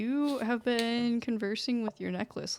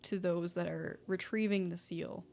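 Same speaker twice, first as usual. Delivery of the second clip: stern father. Acted. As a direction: lecture firmly, rising to insistence. GM voices father figure.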